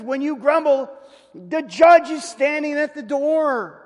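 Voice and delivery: high, loud, slow, falling hard on judge; solemn warning. Acted. Preacher quotes James's warning to grumblers, loud and slow. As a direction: deliver the verdict like a judge at the door. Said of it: "He says".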